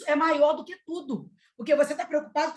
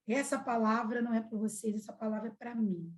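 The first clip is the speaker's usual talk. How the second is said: low, very soft retold admission; hushed confession; 3 semitones lower, 8 dB quieter than usual. Maria claiming the word for herself, hushed. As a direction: quietly voice a solemn confession.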